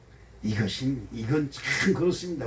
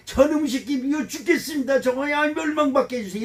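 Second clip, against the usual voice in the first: pitched-up mock prayer cursing an enemy; mock hateful prayer; 7 semitones higher than usual. Pastor mocking a spiteful prayer to God, higher voice. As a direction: act out the wrong kind of prayer, higher. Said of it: "이런 기도는 안 하잖아요".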